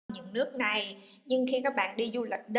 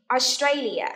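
loud, clear word with falling tune; teacher drilling a word; model for repetition; 6 dB louder, slower than usual. Shown as a demonstration. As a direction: say it out for a class to echo. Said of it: "listen and repeat after me".

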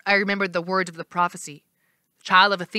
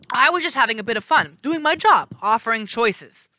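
flustered; 4 semitones higher, 4 dB louder than usual. Acted. Janus excuses himself.

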